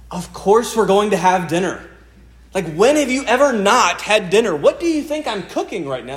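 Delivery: a dad fed up with a silly question, half laughing; exasperated parent. Retold or imitated. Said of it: "frustration and exasperation on my part".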